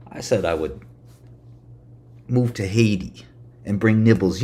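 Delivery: ordinary talk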